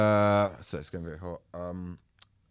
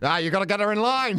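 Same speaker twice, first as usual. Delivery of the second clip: put-on old-school bloke; 7 semitones higher than usual. Fifties man parody.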